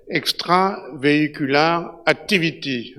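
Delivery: slow English with a thick Parisian French accent. Real, not acted. Lecturer jokes about his Ménilmontant accent, slow French-accented English. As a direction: say it in English the way a Parisian would, slowly. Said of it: "avec mon bel accent de Ménilmontant".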